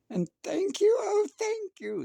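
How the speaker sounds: high, loud, tearful thanks; grateful witch crying. A narrator's reading. Witch thanking her friends, tearful and loud. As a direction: gush out thanks near tears. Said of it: "the grateful witch cried".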